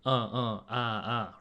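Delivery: short agreeing grunts; 表示同意的嗯啊; grunts of agreement. Shown as a demonstration. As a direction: grunt along like you're listening. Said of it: "Just sort of a grunt of agreement".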